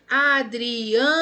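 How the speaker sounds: ADRIANO slow, with a long, loud A in "AN"; stretched stressed syllable. Shown as a demonstration. Teacher offers pupils a paroxytone example, stretched stress. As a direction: call out "Adriano", holding the AN. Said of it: "polissílaba sendo paroxítona".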